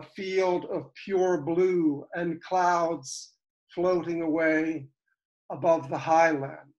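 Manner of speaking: unhurried poetry reading, paused at line breaks; poem recitation. Acted. Poet telling of an immigrant painter, measured recitation. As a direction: recite the story in measured verse phrases. Reads his poem John Kane.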